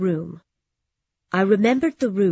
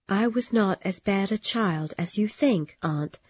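softer, gentle reply; gently; 3 dB quieter than usual. Acted. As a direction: answer her kindly and softly. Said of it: "I said gently".

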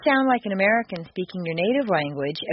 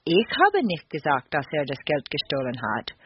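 "habe" stressed, the rest lower and unstressed; 5 semitones lower than usual. Shown as a demonstration. Teacher showing shifted German stress, "habe" stressed. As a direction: lean on "habe", then let the rest fall away low. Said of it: "you would change the stress to".

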